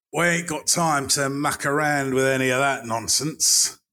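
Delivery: lightly voiced Cockney geezer; a touch of a Cockney accent. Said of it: "says the Cockney".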